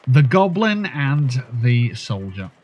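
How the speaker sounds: lightly posh festival race commentator; a touch of posh, showy announcing. Pretend. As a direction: announce the parade in a mildly posh voice. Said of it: "just saying it in a posh voice".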